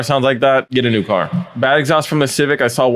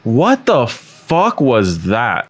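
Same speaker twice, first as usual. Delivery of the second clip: slow disbelief; much slower than usual. Real, not acted. Disbelief at awful exhaust.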